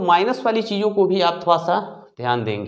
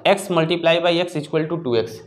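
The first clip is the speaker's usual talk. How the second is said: slow mistaken reading; much slower than usual. Shown as a demonstration. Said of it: "ये बिल्कुल गलत हो जाएगा".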